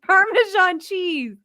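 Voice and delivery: slow, drawn-out mock Italian; Italian accent. Shown as a demonstration. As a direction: Parmesan cheese stretched slowly in a hammy Italian accent. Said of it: "just with an Italian accent".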